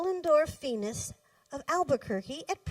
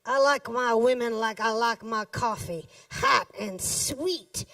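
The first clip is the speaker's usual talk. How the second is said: smirking sleazy guy; 4 dB louder than usual. A narrator's reading. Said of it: "smirked the overaged".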